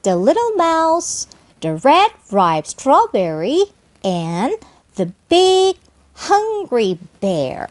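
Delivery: slow, phrase-by-phrase reading with pauses; deliberate teacher's read-along; chunked model reading. Shown as a demonstration. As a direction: pause after each name, unhurried. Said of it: "연습해서 읽으면 보다 쉽게".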